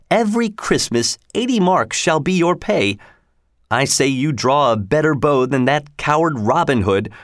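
a proud lord sneering at a beggar; pompous sheriff. Acted. Sheriff mocking the ragged stranger, haughty and high.

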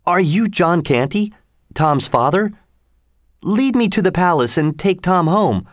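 lightly voiced royal boy giving orders; the prince demanding to be taken to the palace. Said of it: "the prince demanded".

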